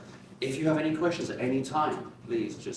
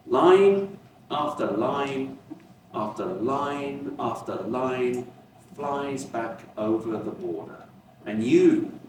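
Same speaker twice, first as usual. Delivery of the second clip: slow, measured poem reading with pauses between phrases; poetry reading; slower than usual. Acted. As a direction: read it as verse, lingering on each phrase. Reads a Chinese poem aloud.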